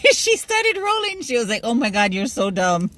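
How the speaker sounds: high-pitched, giggly retelling; cracking up mid-story; laughing while talking. Real, not acted. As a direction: talk through real laughter. Laughs while retelling own joke.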